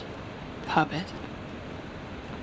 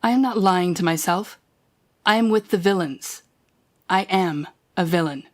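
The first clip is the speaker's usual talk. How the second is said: forceful declaration. Acted. Villain declares allegiance.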